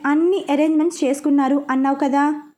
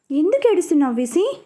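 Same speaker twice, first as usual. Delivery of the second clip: worried; 4 semitones higher than usual. Acted. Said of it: "అని అడిగింది కంగారుగా".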